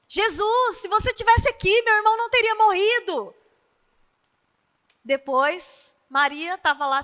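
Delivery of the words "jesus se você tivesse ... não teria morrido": high, loud and quick, rushing to reproach Jesus; hurried complaint. Acted. Marta, hurried and reproachful, speaks to Jesus high and loud. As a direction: Marta rushes out, voice raised in urgent reproach.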